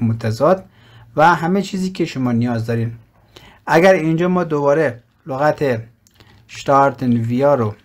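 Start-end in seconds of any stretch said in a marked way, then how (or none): 6.5-7.7 شتارتن ویا read slowly, word by word, falling at the end; slow careful reading. Shown as a demonstration. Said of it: "شتارتن ویا رو کلیک بکنیم".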